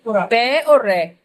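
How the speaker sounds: पै और रे stretched very slowly; slow sounding out. Shown as a demonstration. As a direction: spell the two sounds out slowly. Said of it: "teacher sounds out letters". (धीरे-धीरे अक्षर बोलना)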